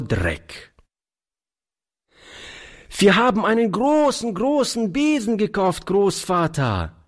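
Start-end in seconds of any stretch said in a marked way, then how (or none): 3.0-7.0 put-on high, quick little-girl delight; voll Entzücken. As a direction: gush like a thrilled small child. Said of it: "rief die Kleine voll Entzücken". (entzückte Kleinmädchenstimme)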